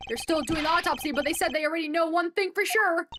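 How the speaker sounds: gruff-hearted detective reporting to his boss; eager detective. Acted. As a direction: burst in with urgent news. Voices the detective character.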